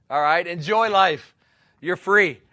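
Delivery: loud, urging preacher; loud exhortation. Real, not acted. Preacher telling the church they're free, loud exhortation. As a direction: lift the room with it.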